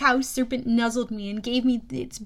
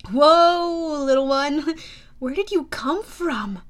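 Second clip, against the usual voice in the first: startled soothing call; 2 semitones higher, 6 dB louder, slower than usual. Acted. Hero soothing a frightened baby creature.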